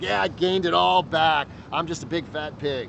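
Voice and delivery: mock self-deprecation. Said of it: "you were like".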